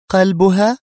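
loud, high, rising question; incredulous echo. A narrator's reading. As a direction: repeat it in disbelieving disapproval. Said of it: "نظرت إليها نادية في استنكار مكررة". (باستنكار)

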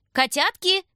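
high, loud sweet calling; affectionate call. A narrator's reading. Aunt Vera calls the children from the kitchen, high and sweet. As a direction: call the kids from another room, fondly. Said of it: "позвал ласковый голос из кухни".

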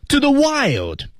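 sudden high, drawn-out cry; slow, soaring exclamation meant to startle; surprise burst. Shown as a demonstration. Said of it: "给对方也是一个surprise".

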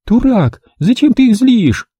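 high, furious rebuke; woman attacking the narrator with fists, shouting; angry woman. A narrator's reading. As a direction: lay into him. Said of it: "С кулаками набросилась на меня Верещагина".

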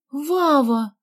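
startled high cry of a name; gasped cry. A narrator's reading. Girl spotting her nanny's car, startled cry. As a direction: gasp out the name in surprise. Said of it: "ахнула Галя".

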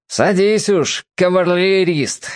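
grumbling. A narrator's reading. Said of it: "ворчливо сказал Дон".

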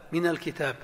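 من الكتاب said as mina lkitab; a short a after من; مِنَ الكتاب بالفتح; linking fatha demo. Shown as a demonstration. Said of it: "مثل من".

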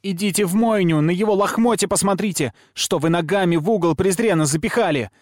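put-on high, loud girlish tirade; shrill, outraged child accusing everyone; furious tirade. A narrator's reading. Girl's screamed tirade of accusations.

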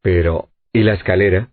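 ordinary delivery, nothing marked

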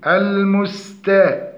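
"المستا" with too little hiss on the s; cut-short seen. Shown as a demonstration. Teacher demonstrates the error, unreleased seen in المستا. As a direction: say "المستا" without letting the s flow. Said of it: "عدم همس ورخاوة السين".

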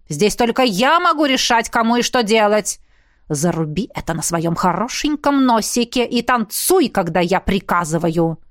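рык. Acted. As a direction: growl it out, domineering. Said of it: "рыкнул". (властный рык, медленно)

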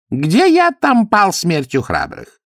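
mildly indignant ex-cuirassier. A narrator's reading. Burenin questioning Ametistov, mildly indignant. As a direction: ask it as a wounded old soldier.

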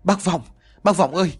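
a desperate woman wailing for help; sobbing wail to the village head; wailing cry. A narrator's reading. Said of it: "khóc lóc kêu gào".

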